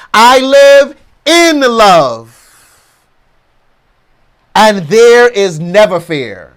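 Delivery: slow, drawn-out declaration with long pauses between; emphatic affirmation. Real, not acted. Speaker leads listeners in affirming love over fear, slow and emphatic. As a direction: lead the affirmation firmly, stretching the key words. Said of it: "Let's affirm this affirmation".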